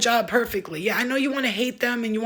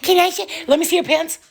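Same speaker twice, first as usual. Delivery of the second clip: raised, sharp mother's call; loud scolding; 7 semitones higher, 5 dB louder than usual. Real, not acted. Mom checking her son's pants, loud.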